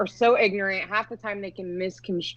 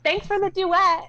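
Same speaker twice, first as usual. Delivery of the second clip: sarcastic thanks; 11 semitones higher than usual. Retold or imitated. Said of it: "You should call".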